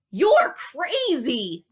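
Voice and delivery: loud, slow, drawn-out protest; shouting. Acted. Gary refusing Dale's plan, slow loud shout. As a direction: stretch it out in disbelief. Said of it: "Gary shouted".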